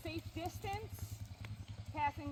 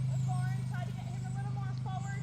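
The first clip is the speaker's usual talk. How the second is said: brisk projected riding commands; 2 semitones higher, 6 dB louder than usual. Real, not acted. Instructor calling across arena.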